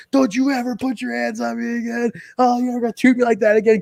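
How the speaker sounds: high, hammed-up scolding woman's voice; mock-scold him in a high voice; angry Tracy imitation. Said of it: "She goes".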